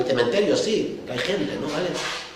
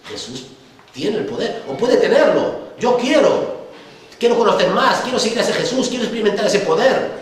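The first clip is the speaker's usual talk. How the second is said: eager believer; 6 semitones higher, 4 dB louder than usual. Retold or imitated. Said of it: "vienen al Señor y dicen".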